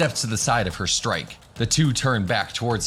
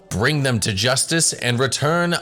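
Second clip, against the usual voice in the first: formal, ceremonious elder addressing the crowd; stately public announcement, slowing at the end; village elder's speech; 2 semitones higher than usual. Acted. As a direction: speak like a village patriarch opening a festival.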